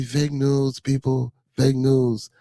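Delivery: lightly voiced Trump catchphrase; a hint of Trump, drawn-out fake news; Donald Trump impression. Streamer to chat, lightly imitating Trump. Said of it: "that was my Donald Trump impersonation".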